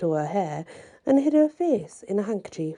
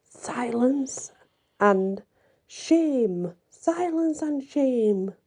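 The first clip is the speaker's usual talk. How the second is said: high pitched call for silence; screamed demand; 5 semitones higher, much slower than usual. Acted. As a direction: cry out for silence and shame. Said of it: "they began to scream".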